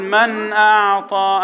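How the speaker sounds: slow, intoned tajweed phrase; recitation demo. Shown as a demonstration. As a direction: chant it with drawn-out vowels. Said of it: "انا بقول".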